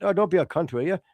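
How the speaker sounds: shaky attempt at British, a little Irish; bad British accent. Shown as a demonstration. Host dodges the censors with a joke, dubious British accent. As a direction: put on an unconvincing British accent. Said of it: "if I do a British accent".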